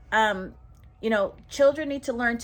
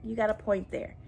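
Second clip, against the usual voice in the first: calm acceptance; 6 dB quieter than usual. Retold or imitated. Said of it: "they can tell you this way".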